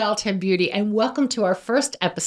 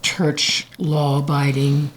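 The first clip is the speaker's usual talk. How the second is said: low monotone voice; 4 semitones lower than usual. Shown as a demonstration. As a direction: keep it low and flat. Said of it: "they talk like this".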